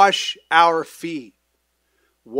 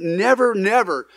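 obstinate; 4 semitones higher than usual. Retold or imitated. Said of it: "He's being obstinate here".

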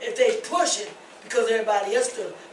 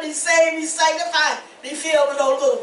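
raised, loud proclamation; preaching shout; 4 semitones higher, 6 dB louder than usual. Acted. Preacher telling YouTube her testimony, loud exhortation. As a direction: proclaim it loudly, quickening at the end.

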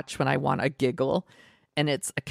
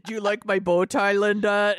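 slightly raised, put-on cat voice; cat character voice; 4 semitones higher than usual. Cat to the babysitter it has a crush on, put-on voice. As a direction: play a cat fishing for a compliment. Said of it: "he just talks like this".

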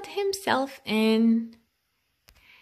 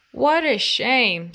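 loud bear lament; 7 dB louder than usual. Acted.

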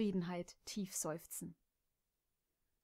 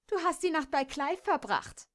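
dark accusation; 8 semitones higher, 4 dB louder than usual. Acted. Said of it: "schnaubte Kimberly düster".

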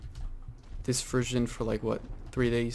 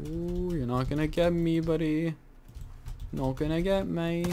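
playful taunt; 5 semitones higher than usual. Real, not acted. Taunting enemy while dodging.

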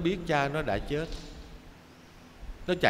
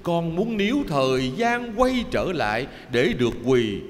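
choked sobbing lament. Acted. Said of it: "nó nức nở nghẹn ngào".

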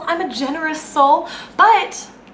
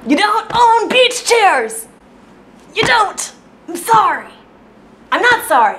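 higher, louder, slow indignant yell; angry outburst; 7 semitones higher, 3 dB louder than usual. Acted. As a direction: tell him off, dragging out each word. Ranting at the beach chair man.

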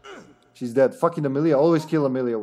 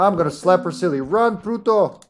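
raised, high call to a teammate; fired-up yell, high and loud; excited game shout; 6 semitones higher, 5 dB louder than usual. Real, not acted. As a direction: holler it in the heat of play. Calling out mid-game.

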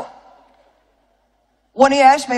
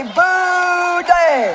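mock boo; 8 semitones higher than usual. Shown as a demonstration.

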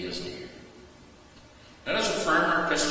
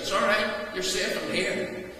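reassuring a son; 6 semitones higher than usual. Retold or imitated. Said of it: "and said".

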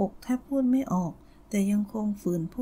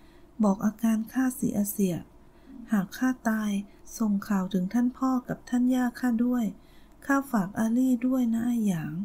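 faint broken voice. Acted. Wounded woman to her beloved, faint and broken. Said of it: "นางเอ่ยพลันเสียงขาดห้วง".

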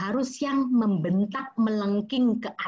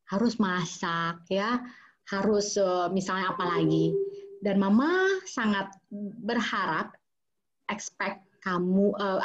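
genuine request; 3 semitones lower than usual. Shown as a demonstration. Mother sincerely asking her son for help, gentle. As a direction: ask for help sincerely, tired mom. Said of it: "Akan beda dengan seperti ini".

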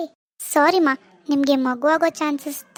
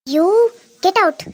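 louder, sharp get out; angry shout; 3 semitones higher, 6 dB louder, much slower than usual. Acted. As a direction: order him out in fury. Angry mother throws doctor out. (ಕೋಪದಿಂದ ಕೂಗು)

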